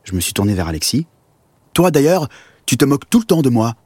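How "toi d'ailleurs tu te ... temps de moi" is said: raised-pitch, accusing complaint; reproachful. Acted. Boy turns to Alexis over teasing, reproachful. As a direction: turn on your friend with a mild accusation.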